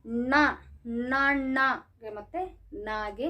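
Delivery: ನ, ನ sounded out slowly as separate syllables; contrasted N sounds. Shown as a demonstration. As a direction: slowly articulate each N in ನ, ನಗೆ and ನಾಗೆ. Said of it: "ಉಚ್ಚಾರಣೆ ಸರಿಯಾಗಿ ಬರೋದಿಲ್ಲ".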